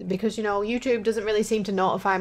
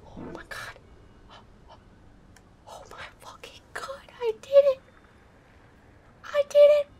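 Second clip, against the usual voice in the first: relieved laughter; 3 dB quieter than usual. Real, not acted. After success, relieved.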